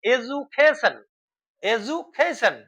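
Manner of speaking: এডুকেশন as "e-ju-kay-shun", said carefully; modern pronunciation. Shown as a demonstration. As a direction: repeat এডুকেশন with a "j" sound in place of d. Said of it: "এ বর্গে জয় হস্র উ".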